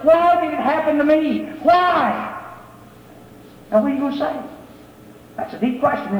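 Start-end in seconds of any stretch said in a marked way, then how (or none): 0.0-2.3 high-pitched grieving plea; acted cry of bewildered grief. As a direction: cry out the question, acting a mourner. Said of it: "Go ahead and cry out".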